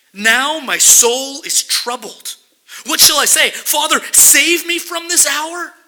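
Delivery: slow, loud and anguished plea; Jesus' troubled soul spilling out in a loud, slow cry. Acted. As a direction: cry out the troubled words, dragging them. Reads Jesus' anguished words.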